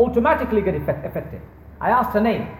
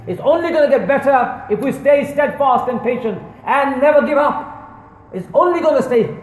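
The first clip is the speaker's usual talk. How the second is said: rising rallying cry; 4 semitones higher than usual. Real, not acted. Preacher rallies the congregation.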